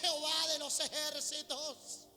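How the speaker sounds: loud, high, drawn-out mock supplication; acted anguished prayer, long stretched words; crying out to God. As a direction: cry out slowly and desperately for mercy.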